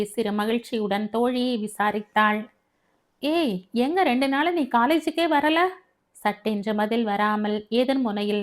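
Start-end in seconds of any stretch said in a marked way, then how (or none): 3.2-5.6 higher-pitched, lightly scolding query to a friend; animated girl-to-girl phone talk; friendly questioning. Acted. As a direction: ask a missing friend what's up. Heroine greets absent friend on phone.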